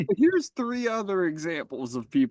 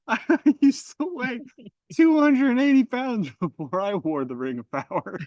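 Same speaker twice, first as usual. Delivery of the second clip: higher, brighter mock ad pitch; diet pill ad; 9 semitones higher, 4 dB louder than usual. Mocking The Ring as a diet pill ad, hammed-up. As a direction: sell it like a weight-loss commercial. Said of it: "diet pill advertisement".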